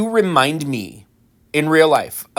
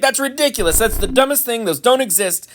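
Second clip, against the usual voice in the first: mocking Ravenclaws; 5 semitones higher than usual. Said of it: "And they'd be like".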